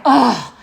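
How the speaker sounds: short groaned "ugh"; retold ugh. Woman retelling her reaction to the apology, groaning. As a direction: let out a reenacted groan. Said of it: "I was like".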